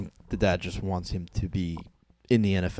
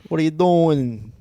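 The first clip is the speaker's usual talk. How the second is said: mock confrontation; 4 semitones higher, 7 dB louder than usual. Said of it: "Hey, Seth Rogen".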